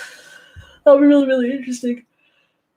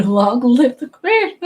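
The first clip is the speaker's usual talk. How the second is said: put-on British accent; 2 semitones higher, 4 dB louder, slower than usual. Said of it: "having a British accent".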